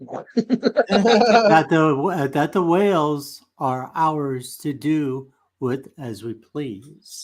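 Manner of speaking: Spock voice. Acted.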